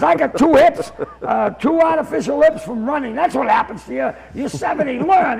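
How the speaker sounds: cranky old man's telling-off, lightly played; ranting. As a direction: lecture him in mock exasperation. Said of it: "This guy is on a rant".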